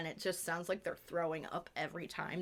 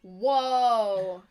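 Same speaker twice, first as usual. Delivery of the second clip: surprised; 2 semitones higher, 12 dB louder than usual. Acted. Mock shocked gasp.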